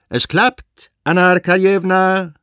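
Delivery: hoch und laut vom Pferd herübergerufen; lauter Zuruf. A narrator's reading. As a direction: ruf es stolz im Galopp hinüber. Wasenka ruft im Vorbeigaloppieren. (Zuruf vom Pferd, hoch und laut)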